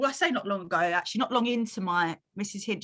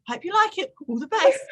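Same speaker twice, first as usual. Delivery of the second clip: mock box voice; 9 semitones higher, 5 dB louder than usual. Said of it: "It was me going".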